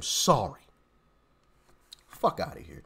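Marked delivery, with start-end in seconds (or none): 2.1-2.8 laughing dismissal. Real, not acted.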